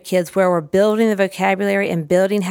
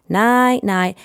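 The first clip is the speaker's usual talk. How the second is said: sing-song night-night; 3 semitones higher than usual. Shown as a demonstration. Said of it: "and then".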